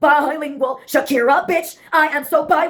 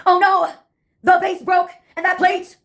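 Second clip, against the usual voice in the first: put-on high-pitched theater-kid outburst; theatrical scream; 4 semitones higher than usual. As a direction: play it like a melodramatic musical chorus. Recurring theater-kid chorus.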